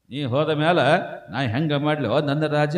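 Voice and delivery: spoken replay of a widow's lament; understated mock lament. Preacher explains what the widow really mourns, understated spoken lament. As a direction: recite the lament with little wail. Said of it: "ತನ್ನ ಹೊಟ್ಟೆ ಕಿಚ್ಚೆಗೆ ಅಳ್ತಾಳಕಿ".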